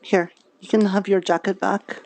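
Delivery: ordinary talk, nothing marked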